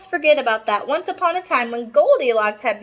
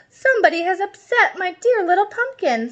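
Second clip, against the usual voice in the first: mother whimpering in a high voice; mock crying mom; 8 semitones higher than usual. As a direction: mum hammed-up sobbing over her cat. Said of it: "said mommy person".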